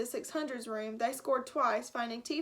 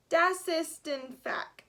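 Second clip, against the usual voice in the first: put-on German accent; 4 semitones higher, 3 dB louder, much slower than usual. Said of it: "a thick German accent".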